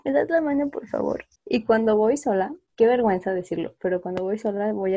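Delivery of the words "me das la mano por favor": higher, then fading to a whisper; scared little ask; timid plea. Retold or imitated. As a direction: ask shyly for a hand, trailing into a whisper. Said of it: "sí es así como de".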